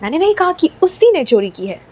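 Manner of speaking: "उसी" pushed high, quick sentence; brisk line with the weight on "उसी"; stress on उसी. Shown as a demonstration. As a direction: emphasise the word "उसी". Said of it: "अब focus डालते हैं she पे".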